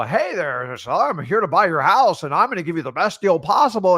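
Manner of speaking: mock a pushy house buyer; salesman pitch. Coach mimics a buyer pitching a seller, mildly salesy. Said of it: "don't sound like a salesman".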